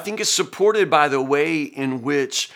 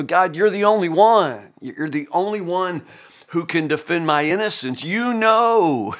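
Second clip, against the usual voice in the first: raised, insistent appeal to God; Job's plea; 4 semitones higher than usual. Acted. Preacher voices Job appealing to God for vindication, pleading. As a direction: plead it upward, leaning on each phrase.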